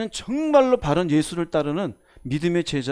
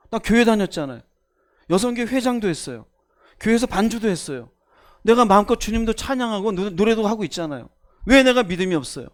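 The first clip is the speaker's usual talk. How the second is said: mock indignant; 3 semitones higher, 4 dB louder than usual. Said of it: "베드로가 열받았어요".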